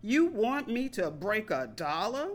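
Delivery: incredulous. Retold or imitated. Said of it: "her incredulous tone".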